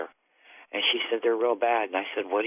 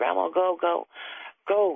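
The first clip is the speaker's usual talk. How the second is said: high, frantic, drawn-out hysterical screaming; 8 semitones higher than usual. Retelling a granddaughter's words in the car: imitating hysterical screaming. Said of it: "she just was screaming hysterical".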